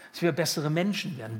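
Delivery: bessere leaned on, the rest kept flat; stress on besser. Shown as a demonstration. Preacher mocking the idea of being better, stress on bessere. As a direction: weigh the word bessere with a mocking push. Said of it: "Betonung auf besser".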